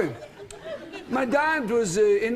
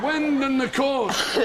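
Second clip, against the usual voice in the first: slow, laughing wonder at the wind; mock weatherman; 4 semitones higher, much slower than usual. Telling the host how his father showed him the wind, slow and amused. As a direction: drag out the words as if it's a marvel. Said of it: "This is something you should see".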